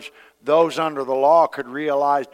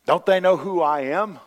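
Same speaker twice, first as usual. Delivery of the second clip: mock indignation. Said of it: "your hackles get up".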